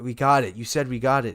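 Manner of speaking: retold indignant plea; mock protest. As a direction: protest like an actor facing a reshoot. Actor protesting a reshoot.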